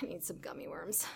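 defeated little whisper. Pretend. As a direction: breathe it out, beaten. Role-play, late night stress.

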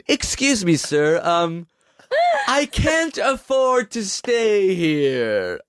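timid hotel guest. Pretend.

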